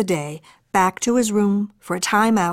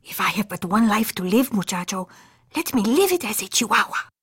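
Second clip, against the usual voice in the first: mock Spanish accent. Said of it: "using his very best Spanish accent".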